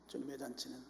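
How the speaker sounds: normal talking voice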